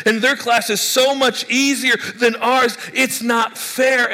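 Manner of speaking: student winding up about an unfair professor; building whiny rant. Acted.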